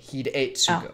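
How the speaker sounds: "Hidetsugu" with the E said as a hard A, "hee-day-tsu-gu". Shown as a demonstration. Correcting a friend on the ogre's name, hard A. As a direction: model "Hidetsugu" with "day" in the middle. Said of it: "no, hard A".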